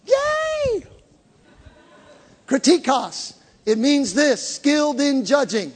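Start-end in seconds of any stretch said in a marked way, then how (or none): 0.1-0.8 high-pitched little "yay"; mock cheer. Preacher cheers his own pronunciation, playfully high. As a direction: celebrate in a high, playful squeal. Celebrates getting the word right.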